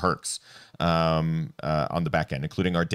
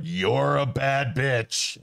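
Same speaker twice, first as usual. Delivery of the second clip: slow, high, strange monster voice; Kraken voice; 7 semitones higher, much slower than usual. Retold or imitated. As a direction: drag it out like a sea monster. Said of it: "she's just like".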